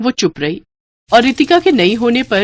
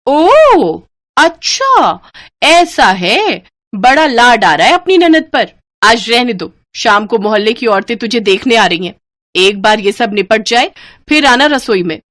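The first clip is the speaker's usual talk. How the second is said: sarcastic scolding; 3 semitones higher, 5 dB louder than usual. Acted. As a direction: sneer at the new bride. Babita mocks Sakshi sarcastically. (ताना मारती ऊँची आवाज़)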